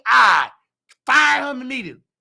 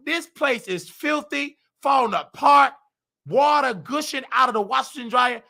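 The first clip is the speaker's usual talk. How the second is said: indignant yelling; 3 semitones higher than usual. Retold or imitated. To the man patching a wall instead of fixing floods, indignant shout. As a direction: tear into him for patching a wall.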